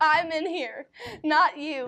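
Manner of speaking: firm, drawn-out call. Speaker shows how you answer from inside the bathroom: bathroom voice with conviction. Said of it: "you put on the conviction, I'm in the bathroom voice".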